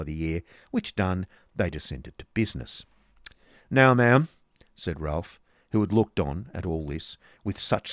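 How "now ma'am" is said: loud, raised voice; brusque businessman. Acted. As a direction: cut in loudly to get down to business. Scornful Ralph opens business.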